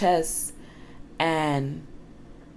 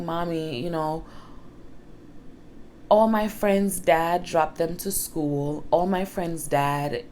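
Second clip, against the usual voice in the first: son's exact words. Retold or imitated. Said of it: "Let me say it exactly how he said it".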